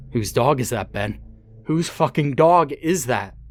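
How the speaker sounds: from angry to very high, loud yell; building fury. Acted. Father yelling at son about the dog. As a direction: press him harder each time.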